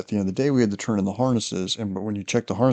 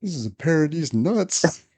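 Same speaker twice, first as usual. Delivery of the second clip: gleeful punchline; 7 semitones higher than usual. Retold or imitated. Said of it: "He's like".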